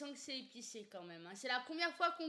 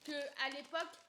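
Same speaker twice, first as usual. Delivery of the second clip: mouth full; 3 semitones higher than usual. Real, not acted. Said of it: "je parle la bouche pleine".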